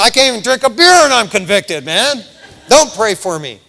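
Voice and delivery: loud comic grumbling; imitated mad backslider. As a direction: protest loudly as the convicted drinker. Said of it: "they got mad".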